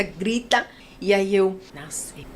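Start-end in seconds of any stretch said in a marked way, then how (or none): 1.7-2.3 much softer, lower, barely there; a faint retold murmur; breathless whisper. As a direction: let it slip out exhausted. Whispered exhausted reaction at birth.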